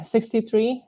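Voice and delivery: out of breath mid-count; catching breath midword. Real, not acted. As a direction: gasp for air between numbers. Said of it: "Sorry, lost my breath there".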